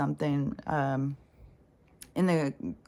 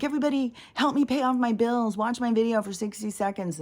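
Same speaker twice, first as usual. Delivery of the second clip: higher, whiny imitation of a beggar; mock begging; 6 semitones higher than usual. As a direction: parody someone pleading for money. Mocking online beggars.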